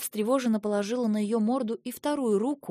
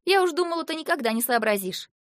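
higher, louder teasing dragoness; cheerful dragon girl; 6 semitones higher, 3 dB louder than usual. A narrator's reading. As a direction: tease her cheerfully. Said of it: "весёлый голос". (весёлая драконица)

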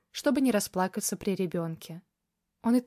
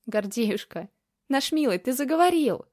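delighted grandmother; 4 semitones higher, 3 dB louder than usual. Acted. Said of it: "улыбнулась мама".

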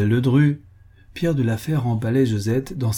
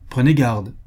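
slightly raised warning; exclaiming; 4 dB louder than usual. A narrator's reading. Count warning his defiant wife, mild exclamation. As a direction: warn her firmly, without shouting. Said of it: "s'écria monsieur Moret".

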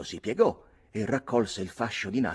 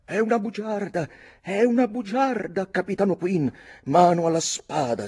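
high, loud outraged cry; furious youth crying out; shouting accusation; 11 semitones higher, 8 dB louder than usual. A narrator's reading. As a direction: shout it as a challenge to a duel.

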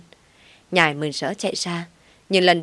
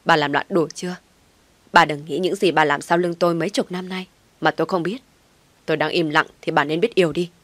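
barking. Acted. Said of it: "quát lớn".

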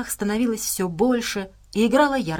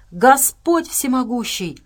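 slow, higher, louder exclamation; voiced gasp of dismay; awed gasp; 5 semitones higher, 5 dB louder, slower than usual. A narrator's reading. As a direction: stretch it out in shocked horror. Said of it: "выдохнул Джексон и попятился назад".

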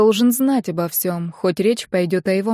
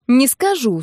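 mocking copy of the stubborn "не скажу", falling on скажу; parodying friend; 5 semitones higher, slower than usual. Narrator mimicking her friend's stubborn refusal back at her. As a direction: tease her with her own words. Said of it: "спародировала я её".

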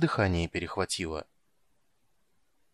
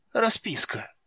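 high squeaky clerk; 11 semitones higher, slower than usual. A narrator's reading.

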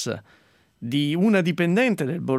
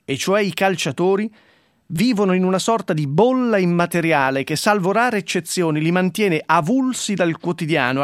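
mock solemn reading. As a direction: read it like a grandiose verdict.

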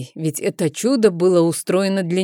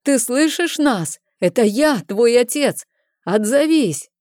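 father calling out; 6 semitones higher than usual. A narrator's reading. Father calls to lost son.

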